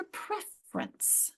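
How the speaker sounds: preference squeezed to PREF-rence; dropped syllable. Shown as a demonstration. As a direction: say preference in two syllables, middle vowel gone. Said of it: "that just kinda disappeared".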